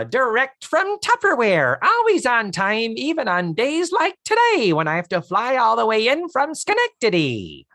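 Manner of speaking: high, loud, broad upstate New York twang; upstate New York dialect. Retold or imitated. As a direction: belt out a hammed-up upstate New York accent. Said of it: "attempting to do that central upstate New York dialect".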